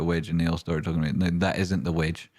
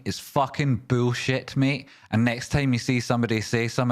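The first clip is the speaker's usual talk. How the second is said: raised, heated, swearing at the chat; annoyed rant; 5 semitones higher than usual. Real, not acted. Streamer fed up with chat, angry rant. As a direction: vent the frustration, pitched high.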